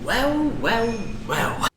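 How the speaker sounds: high-pitched Cockney bad-guy greeting; Cockney London accent. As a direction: play a lovable Cockney rogue spotting his man. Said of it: "I am portraying a Cockney London accent".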